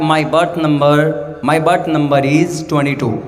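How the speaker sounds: slow, chewed mock English, "berth" swallowed; chewed English accent. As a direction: play the Englishman lightly, words chewed. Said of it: "چبا چبا کے بولتے ہیں".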